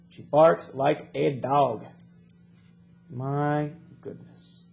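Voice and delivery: slow, deliberate storybook read-aloud; reading to children. Acted. Teacher reading a story to the class, slow and clear. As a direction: read it slowly for young learners.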